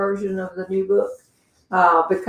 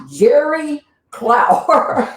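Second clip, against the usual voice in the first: name read out; 7 semitones higher, much slower than usual. Retold or imitated. Reading name off the suitcase.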